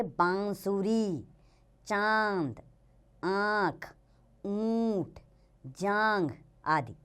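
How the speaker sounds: "चांद" with a nasal aa through nose and throat; nasalized vowels. Shown as a demonstration. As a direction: lengthen each chandrabindu vowel through the nose, "ऊंट" nasal oo. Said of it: "नाक और गले दोनों का प्रयोग". (चंद्रबिंदु की अनुनासिक ध्वनि दिखाते हुए)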